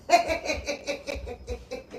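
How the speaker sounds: soft rattling laughter fading out; quiet staccato giggling fit; real laugh. Real, not acted. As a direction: chuckle helplessly at your own line. Laughs at own remark.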